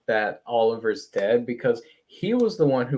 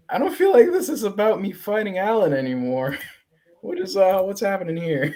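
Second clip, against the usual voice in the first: higher, hesitant mock confusion; acted bewilderment; 9 semitones higher, 3 dB louder, faster than usual. Husband puzzled by wife's outburst, acted wary confusion. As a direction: question it carefully in a raised pitch.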